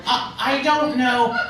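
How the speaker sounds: slow, confused counting of the moves; lost in the pews, slowly working out the kneeling; flustered. Retold or imitated. Comedian acting lost at mass, slow and confused. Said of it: "And I go".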